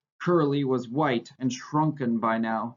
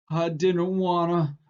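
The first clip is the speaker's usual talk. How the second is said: higher, slow distressed plea; mild tearful protest; crying out; 6 semitones higher, slower than usual. A narrator's reading. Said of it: "Lenny cried".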